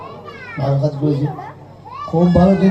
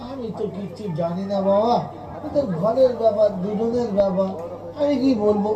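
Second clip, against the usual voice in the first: feigned innocence; 5 dB quieter than usual. Retold or imitated. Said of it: "এমন কথা বলবে".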